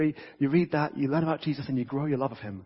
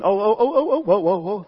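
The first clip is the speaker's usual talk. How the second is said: higher and louder, laughing amazement; laughing surprise; 5 semitones higher, 6 dB louder than usual. Real, not acted. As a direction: gasp with delight as the flame returns. Trick candle relights.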